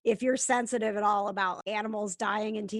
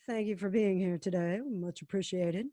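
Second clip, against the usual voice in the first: Princess Diaries quote; 4 semitones lower, 3 dB quieter than usual. Acted. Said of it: "That's a Princess Diaries reference".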